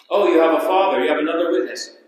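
a hint of scoffing disbelief; lightly voiced challengers. Pharisees questioning Jesus about his Father, lightly mocking. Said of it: "And so they say to him".

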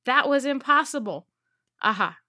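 loud gloating "Ha ha" of a crazed captain; mad villain laugh. Acted. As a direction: cackle like a triumphant pirate villain. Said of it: "now that we know what he sounds like".

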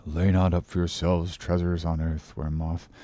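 low, soft pious mumble; mumbling to himself. A narrator's reading. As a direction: read half to yourself, low and hushed. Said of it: "went on mumbling to himself out of his book".

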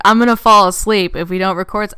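hammed-up retold whine; mock urgent complaint. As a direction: exaggerate someone's sleepy ultimatum. Retelling co-host's urgent sleepy text.

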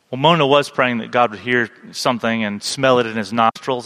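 breathing hard through nose; winded, still catching breath; heavy nose breathing. Real, not acted. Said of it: "now you hear my nostrils".

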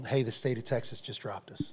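hushed whispered bad news. Caller telling the couple Texas dropped them, whispered. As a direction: whisper the call like grim news.

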